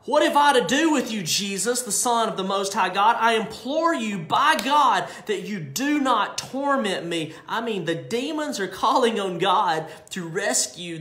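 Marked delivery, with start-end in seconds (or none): 0.0-7.3 high, loud pleading cry; the demon shouts and begs not to be tormented. Acted. Demon crying out to Jesus, high and loud. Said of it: "He cried out".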